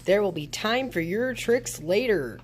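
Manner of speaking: loud ghostly dismissal; ghost calling out. A narrator's reading. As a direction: send the witches off like a ghost. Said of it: "called the ghost".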